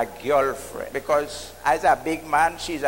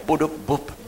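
heartbeat; 4 semitones lower, 3 dB quieter than usual. Retold or imitated. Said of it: "I'm beating here for you".

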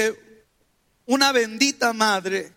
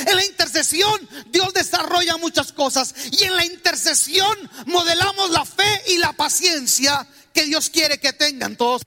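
raised, higher preaching voice; preaching shout; 4 semitones higher than usual. Real, not acted. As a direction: drive the point home to the congregation. Preacher raising his voice. (predicador alzando la voz con fuerza)

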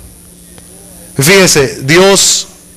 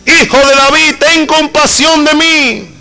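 crying out louder; 9 semitones higher than usual. Retold or imitated. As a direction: stretch every word as if the last chance. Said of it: "él gritaba mucho más fuerte".

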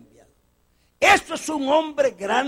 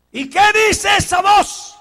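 questioners asking; 9 semitones higher, 11 dB louder than usual. Retold or imitated. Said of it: "questioners of John".

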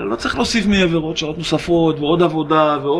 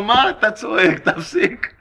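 amused mock scolding; 3 semitones higher, slower than usual. Crowd scolds the man, teller laughing.

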